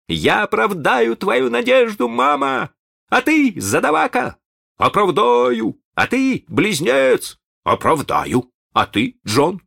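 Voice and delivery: high, fervent calling-out, easing at the end; excited boy's cry. A narrator's reading. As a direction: cry out eagerly in a high boyish voice. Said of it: "Шалун взволнованно крикнул". (взволнованный мальчишеский выкрик, высоко)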